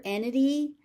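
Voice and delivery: "entity" as EN-uh-dee, first T dropped; relaxed American pronunciation. Shown as a demonstration. Teacher warning learners what they might hear, relaxed "entity" without first T. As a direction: loosen "entity", no T after the N. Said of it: "very relaxed American style pronunciation".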